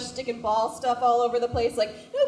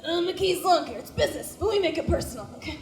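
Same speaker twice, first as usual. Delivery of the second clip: higher mock mafia ad read; mock mobster ad; 5 semitones higher than usual. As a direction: ham up a Godfather-style truck ad. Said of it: "They say things like".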